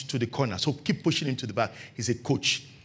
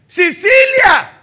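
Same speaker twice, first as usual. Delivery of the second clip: calling out to the maid; 16 dB louder than usual. Retold or imitated. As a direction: call the maid from across the house. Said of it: "Then you have passive parents".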